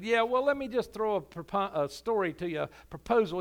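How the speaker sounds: loud, pushy setup of a trick question; skeptic's dare. Acted. Skeptic pressing the pastor with a loud hypothetical. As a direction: lean in and dare him.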